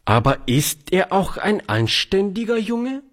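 high, probing spinster voice; suspicious old lady. Acted. Charlotte questions the boy's background, high suspicious voice. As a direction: grill him like a prim aunt.

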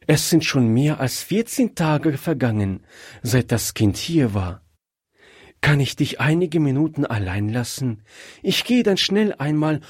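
joyful but probing wife; happy wife. Acted. Wife asks husband if he truly wants the child, eager.

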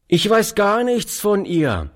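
put-on friendly boy, pitched high; mildly friendly high reply. A narrator's reading. Street boy answers the old man, friendly. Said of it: "antwortete der fremde Junge freundlich".

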